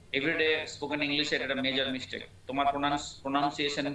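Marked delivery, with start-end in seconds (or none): 3.2-3.9 প্রনাউন্সিয়েশন said with "noun" as second syllable; common mispronunciation. Shown as a demonstration. Teacher flags a major mistake, saying প্রনাউন্সিয়েশন with "noun". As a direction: say প্রনাউন্সিয়েশন as pro-NOUN-see-ay-shun. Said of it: "ভুল".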